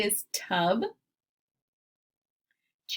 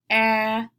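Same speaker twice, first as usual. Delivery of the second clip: "a" punched louder as the peak of the word; stressed vowel; 7 dB louder than usual. Shown as a demonstration. Teacher to class, showing the middle vowel, stressed loud. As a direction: hit the vowel "a" hard, like the top of a roller coaster. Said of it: "really emphasizing that middle vowel sound".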